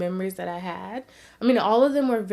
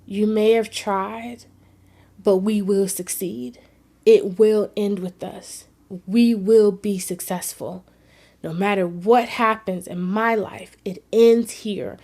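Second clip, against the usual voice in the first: slow, loud, determined vow; breaking the cycle, slow loud vow; resolute declaration; 6 dB louder than usual. Retold or imitated. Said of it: "I can remember myself feeling".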